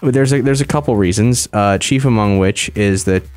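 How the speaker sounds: talking with sore mouth after wisdom teeth; can't open mouth wide; mouth barely opening. Real, not acted. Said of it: "I might sound a little weird 'cause I got my wisdom teeth out".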